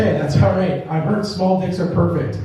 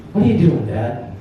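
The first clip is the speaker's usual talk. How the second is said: put-on pointed child's question; 4 semitones lower than usual. Daughter questions dad about his behavior, pointed falling question. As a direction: ask it firmly, letting the end drop.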